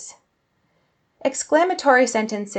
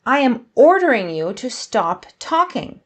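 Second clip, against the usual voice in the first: stern order; 4 semitones higher, 5 dB louder than usual. Shown as a demonstration. Acting out the command just given.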